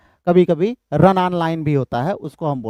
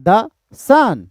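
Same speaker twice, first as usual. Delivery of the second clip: SUN stretched and falling, THE short; stress pattern demo; 3 semitones higher, 4 dB louder than usual. Shown as a demonstration. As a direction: punch SUN after a light THE. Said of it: "that is unstressed". (SUN पर ज़ोर, THE हल्का)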